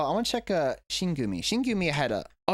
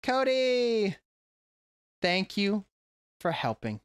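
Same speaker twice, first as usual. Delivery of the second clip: delighted; 4 semitones higher, much slower than usual. Real, not acted. Reading name off a card.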